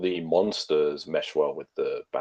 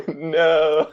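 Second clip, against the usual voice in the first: replaying the anguished no; retold shout; 10 semitones higher than usual. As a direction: echo the despairing scream. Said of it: "dropped to my knees and shout".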